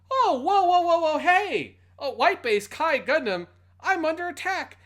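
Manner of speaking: high, loud, hammed-up alarm; mock panic. Podcast host voicing Duke Jose under attack, hammed-up alarm. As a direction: yelp it like a corny dubbed pilot. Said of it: "He says".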